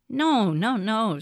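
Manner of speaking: gentle reassuring Santa; kindly voice. Acted. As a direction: soothe the worried animals. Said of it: "said Santa in a kindly voice".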